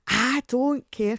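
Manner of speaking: slow, high, loud huffy refusal; mock sulky defiance. The speaker brushing off the Santa warning, huffy mock refusal. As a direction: stretch it out like a stroppy teen.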